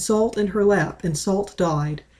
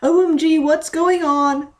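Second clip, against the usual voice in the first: high, loud panicked cry; screamed; 9 semitones higher, 4 dB louder than usual. Acted. Mint seeing Mickey bleed, screaming. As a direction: shriek it in alarm. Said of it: "screamed Mint".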